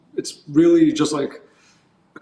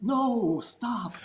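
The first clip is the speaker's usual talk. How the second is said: higher but much softer "no, stop, stop"; hushed scolding; 5 semitones higher, 9 dB quieter, much slower than usual. Retold or imitated. Telling tourists to hush, a soft urgent stop. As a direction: shush them sharply but quietly. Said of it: "You're disrupting the peace".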